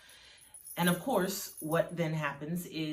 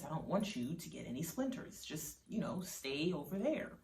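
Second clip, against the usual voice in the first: soft, understated motherly concern; quietly steer the child away from harm; sincere concern; 9 dB quieter than usual. A narrator's reading. Mother keeping daughter from splinters, softly concerned. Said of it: "her mother's sincere concern".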